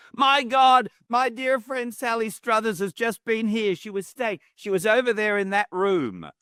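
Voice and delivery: high-pitched gushing friend voice; excited quote of Brenda. Retold or imitated. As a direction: bubble over like the delighted friend. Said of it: "And she said".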